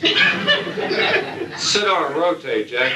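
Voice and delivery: laughing through the wife's put-down; very slow, amused mock retort. Wife telling off her controlling husband, laughing mock retort. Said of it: "your wife will say to you".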